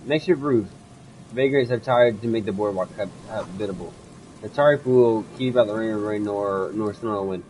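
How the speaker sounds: steady storytelling read of the game text; game narration. Acted. Reads game text aloud.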